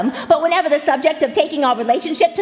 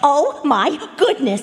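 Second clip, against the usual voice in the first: delighted gasp; slower than usual. Acted. Gasps at memory of ring.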